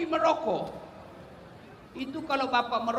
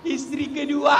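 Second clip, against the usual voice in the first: shouted punchline; 3 semitones higher, 5 dB louder than usual. Real, not acted.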